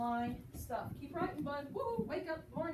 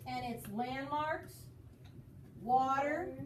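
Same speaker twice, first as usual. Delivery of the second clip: slow, "landmarks" left rising before a pause; "landmarks" and "water" held out as unfinished list items; listening for pauses; slower than usual. Shown as a demonstration. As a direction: hang "landmarks" up, then set "water" apart. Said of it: "Did you hear your voice?".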